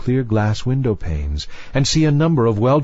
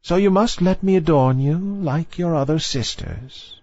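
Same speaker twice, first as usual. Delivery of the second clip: put-on old grandmother voice; 7 semitones higher than usual. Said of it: "said the old dowager, her grandmother".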